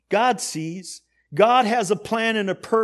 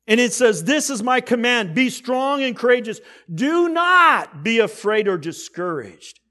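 raised command, slowing on the prohibition; emphatic preaching; 4 semitones higher, 4 dB louder than usual. Real, not acted. Preacher gives God's command to Joshua, emphatic preaching. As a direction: proclaim the command with force.

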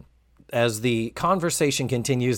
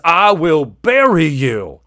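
mock threat; 6 dB louder, slower than usual. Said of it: "and then he says".

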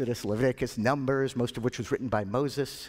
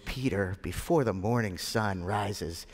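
gentle, slightly lowered and tender; loving voice; 3 semitones lower than usual. Acted. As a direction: break it to a dear friend kindly. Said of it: "in a loving voice".

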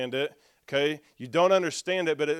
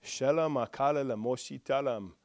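practicing tongues; 2 semitones lower, 6 dB quieter than usual. Shown as a demonstration. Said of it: "he asked me to practice that".

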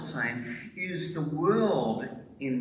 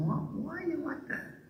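high probing question; 4 dB quieter than usual. Retold or imitated. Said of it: "And Jesus says to them".

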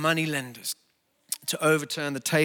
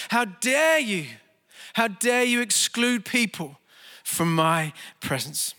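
raised, slow, righteous rebuke; Jesus angry; 3 semitones higher, slower than usual. Acted. Pastor voicing Jesus rebuking the temple traders, slow raised anger. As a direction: demand it in outrage, slowing down on the last words. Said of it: "this expression of anger i-, i-, and, and rage".

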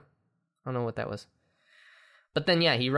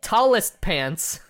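slow, higher and louder indignant line; mock indignation; 6 semitones higher, 6 dB louder, much slower than usual. Friend voicing the photographer about ruined pants, mock indignation. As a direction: drag it out, offended.

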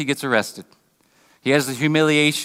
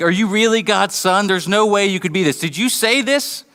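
higher-pitched, disbelieving questioning; incredulous interrogation; 4 semitones higher than usual. Acted. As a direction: challenge him in disbelief. Acted interrogation of Jesus by leaders.

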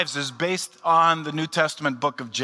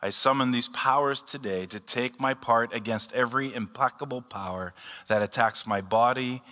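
measured, reverent prayer recitation; solemn prayer; 3 semitones lower than usual. Acted. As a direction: recite the breastplate prayer with gravity. Leads Saint Patrick's prayer aloud.

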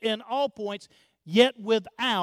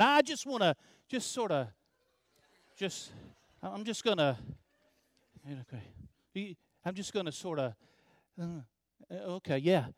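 trailing, much softer, halting; tempted mumble; 4 semitones lower, 7 dB quieter, faster than usual. Real, not acted. Pastor tempted by the open box, mumbling softly. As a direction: fight the urge, words fading.

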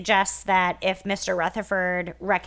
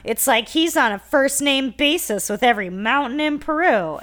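mock whining, pitched higher; whiny baby; 4 semitones higher, 3 dB louder than usual. Podcast host mocks a sitcom dad griping about a boastful guest, whiny. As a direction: keep up the put-on baby gripe. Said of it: "this is where whiny baby Ward says".

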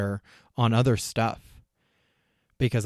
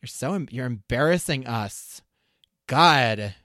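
put-on obnoxious teenager; slower than usual. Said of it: "that voice is the teenager".

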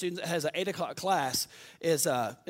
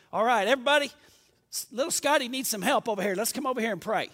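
louder, higher call to the room; 3 semitones higher, 4 dB louder, faster than usual. Retold or imitated. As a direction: summon everyone over to pray. Sister Garrett calling the group.

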